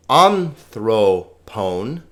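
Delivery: anthropon drawn out, hitting AN first; slowly overstress the first syllable of anthropon; wrong first-syllable stress. Shown as a demonstration. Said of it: "because thro has the accent".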